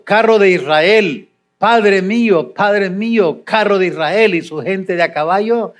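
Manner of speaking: mild sobbing plea, lightly acted; a touch of a choked-up cry; voz entrecortada. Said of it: "estaba en sollozos, con la voz entrecortada". (súplica con un leve sollozo imitado)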